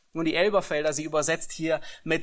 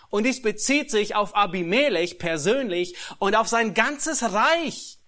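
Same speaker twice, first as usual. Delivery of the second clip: ordinary talk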